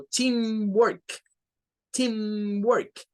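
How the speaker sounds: teamwork with team stronger; stress on team. Shown as a demonstration. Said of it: "team es la sílaba tónica". (teamwork con más fuerza en team)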